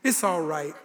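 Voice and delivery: mock the too-saintly reply; light sanctimonious tone; mock pious. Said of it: "you say".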